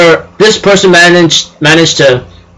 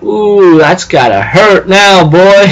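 mock wince; 3 semitones higher, much slower than usual. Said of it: "I go like".

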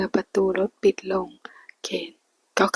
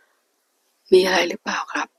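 puzzled; 3 dB louder, much slower than usual. Acted. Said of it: "ถามขึ้นอย่างสงสัย".

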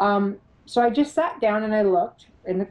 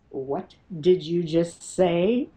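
slow, measured mama-bear challenge; much slower than usual. Retold or imitated. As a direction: confront them like a protective mother, slowly. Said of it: "My mother bear comes out".

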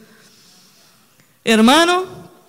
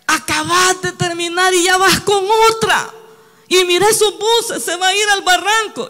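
alarmed warning; 6 semitones higher than usual. Retold or imitated. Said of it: "Y me dijeron".

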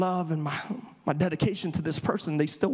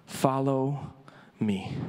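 soft, slow follow me; 4 semitones lower, much slower than usual. Acted. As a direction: Follow drawn out, me dropped soft and low. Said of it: "two of the most profound words".

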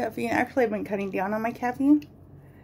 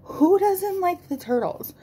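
mock incredulous; 10 semitones higher, 4 dB louder, slower than usual. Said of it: "I'm like".

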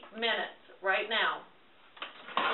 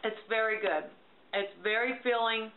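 tasting off spoon. Real, not acted. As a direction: mouth full while talking. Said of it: "let's see if this tastes good".

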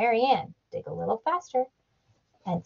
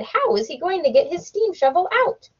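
questioning Missus McGillicuddy; 7 semitones higher than usual. A narrator's reading.

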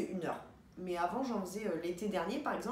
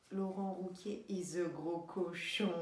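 impression of a singer; 2 semitones lower, slower than usual. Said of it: "elle faisait Madonna".

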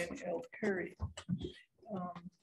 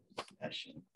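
hoarse, fading to breath; losing voice; 11 dB quieter, faster than usual. Real, not acted. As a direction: voice cracking into a whisper. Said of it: "I'm losing my voice".

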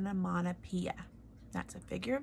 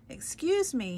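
small mouse voice; 6 semitones higher, 4 dB louder than usual. Acted. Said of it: "He spoke as loudly as he was capable".

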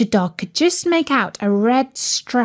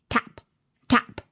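small, soft taps; quiet tap; 6 dB quieter than usual. A narrator's reading. Narrator voicing taps from inside an egg, quiet. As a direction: make each word a soft little knock. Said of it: "there was a quiet tap".

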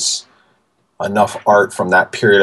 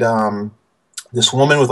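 usual speaking voice

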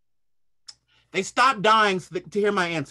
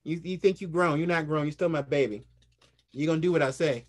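lightly voiced teasing mom, a touch lower; a hint of a knowing mother setting him straight; smug mother; 4 semitones lower than usual. Mother teasing her grown son, lightly voiced and knowing. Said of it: "see the smile on my mother's face going".

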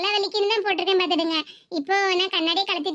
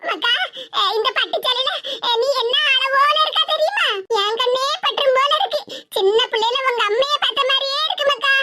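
raised pitch, lightly voiced doting old granny; old grandmother; 4 semitones higher than usual. Grandmother praises her granddaughter in her silk saree, doting.

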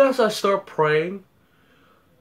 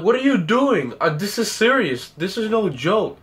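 higher-pitched, indignant retold protest; retold exasperation; 5 semitones higher than usual. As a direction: protest to mom that this is serious. Retold scolding of laughing mom.

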